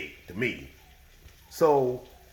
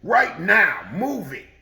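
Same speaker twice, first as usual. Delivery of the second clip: mock order; 4 semitones higher, 5 dB louder, slower than usual. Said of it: "He said".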